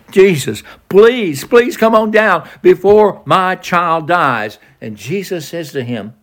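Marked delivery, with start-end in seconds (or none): 0.1-4.6 pitched up high and slowed down, pleading hard; begging. Retold or imitated. The official on his knees begging Jesus, higher and slower. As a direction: beg with each please. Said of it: "He's begging him".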